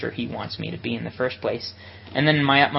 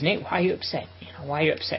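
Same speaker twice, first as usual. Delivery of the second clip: lightly needling, pitched up at first; retold teasing; 3 semitones higher, 3 dB quieter, faster than usual. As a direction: imitate a friend's gentle prodding. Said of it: "He's kinda teasing me like this".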